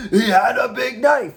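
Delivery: loud dramatic warning; spooky storyteller. Pretend. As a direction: play up the scary line. Mock scary campfire line.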